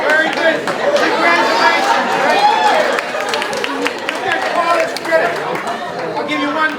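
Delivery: loud, booming congratulations; teacher congratulates the graduating students loudly; excited. Real, not acted. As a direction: cheer them on with full voice. Crowd celebration after big yell.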